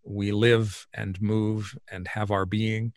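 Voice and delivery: slow, measured quoting of scripture; scripture recitation. Acted. Guest quoting Paul to the host, slow recitation. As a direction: recite the verse slowly, phrase by phrase.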